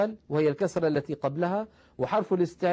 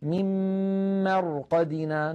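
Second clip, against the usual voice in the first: recited verse. Shown as a demonstration. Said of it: "نلاحظ هنا الراء ساكنة وقبلها مفتوح".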